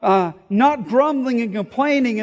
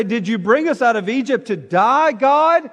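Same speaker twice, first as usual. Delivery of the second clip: raised, rising complaint to God; complaining cry; 3 semitones higher, 4 dB louder than usual. Retold or imitated. Israelites in the desert, complaining loudly to God. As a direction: let the complaint climb to a loud "God?". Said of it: "they start complaining and say".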